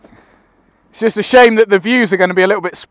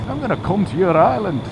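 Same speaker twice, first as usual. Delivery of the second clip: put-on Weem's Scottish accent; 4 dB quieter than usual. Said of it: "worst Scottish accent I've ever tried".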